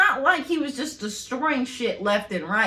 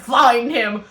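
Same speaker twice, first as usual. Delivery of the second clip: mock villain order; 6 dB louder than usual.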